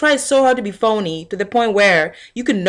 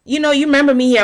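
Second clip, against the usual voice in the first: getting upset; 7 semitones higher, faster than usual. Retold or imitated. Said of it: "So I'm starting to get upset".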